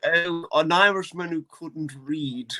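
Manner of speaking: slow mock-English accent; Charlie. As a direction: imitate a posh English comic, drawn out. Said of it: "Charlie's like".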